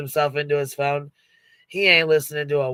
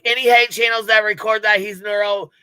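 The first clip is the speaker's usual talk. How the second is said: higher imitation of her scolding; retold warning, pitched up; mock stern warning; 5 semitones higher, 5 dB louder than usual. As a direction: announce it as the indignant woman. Mimicking woman's warning to hate channels.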